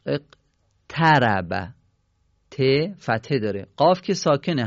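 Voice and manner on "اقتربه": اقتربه very slow, split as "eq - taraba"; broken into sounds. Shown as a demonstration. Teacher showing the vowel after alef, اقتربه split slowly. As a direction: pause after "eq", then stretch "taraba" in اقتربه. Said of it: "بعد از الف وصل چه حرکتی داریم".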